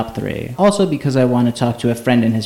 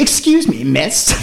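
exaggerated German-style manner; 4 semitones higher, slower than usual. Imagining approaching a woman on the street, hammed-up high-pitched "Excuse me, miss". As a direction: launch "Excuse me" high and theatrical, then lift "miss". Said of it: "in a manner I'd never say it in English".

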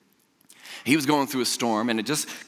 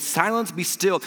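annoyed; 5 semitones higher, slower than usual. Shown as a demonstration. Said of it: "almost annoyed at it".

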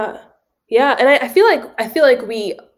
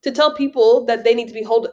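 pitched-up indignant questioning; incredulous challenge; 5 semitones higher than usual. Retold or imitated. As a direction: demand who they think they are.

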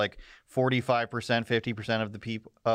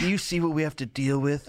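mock whiny journalist; 3 semitones higher than usual. Mocking journalists' complaint.

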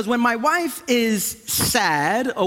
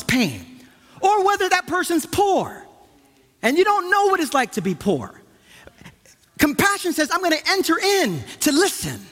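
higher-pitched, insistent sermon delivery; urgent pulpit appeal; impassioned preaching; 7 semitones higher than usual. Real, not acted. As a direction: preach it with conviction, pitch lifted. Preaches with rising force.

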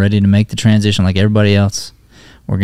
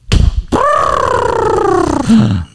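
surprised gasp. Acted. Sees his horse return.

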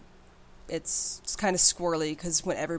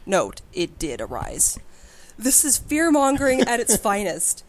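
loud, higher whiny nerd rant; salty nerd voice; 3 semitones higher, 4 dB louder than usual. Acted. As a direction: read it as an indignant forum poster. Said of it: "Pick your saltiest nerd voice".

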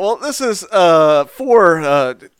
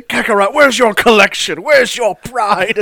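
Vegeta voice; 3 semitones higher than usual. Acted. Role-playing Vegeta taunt.

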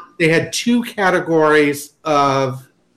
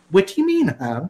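puzzled cashier; 3 semitones higher than usual. Retold or imitated. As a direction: play the confused cashier. Cashier voiced in a story.

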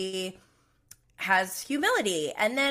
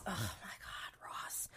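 breathy exasperated whisper of his name; 4 semitones lower, 19 dB quieter, slower than usual. Real, not acted. Recapping the show, whispering in disgust about Ross. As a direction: hush it out in disbelief.

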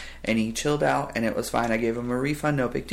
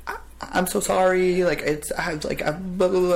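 flustered rambling; 5 semitones higher than usual. Retold or imitated. Flustered employee again.

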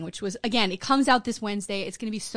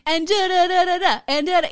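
higher, louder sing-song da da; mock Italian lilt; 7 semitones higher, 5 dB louder than usual. Teasing her cohost's Italian-talk voice, sing-song. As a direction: parody her Italian-movie voice. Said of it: "you can hear when you're like".

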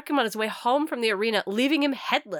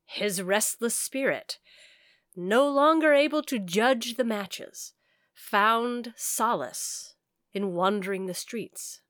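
story narration; 2 semitones higher than usual. A narrator's reading. Reads ghost story narration.

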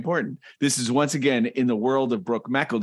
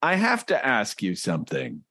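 Sven reading; 4 semitones higher than usual. Acted. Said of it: "Sven Spocket says".

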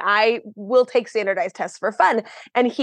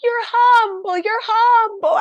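gently insistent friar; 11 semitones higher, slower than usual. Retold or imitated. Friar insisting while she cries.

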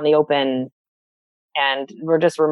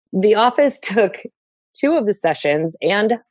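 real amused laughter breaking into the words; higher, chuckling through the admission, then apologizing; laughing at oneself; 4 semitones higher than usual. Real, not acted. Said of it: "I'm laughing at myself".

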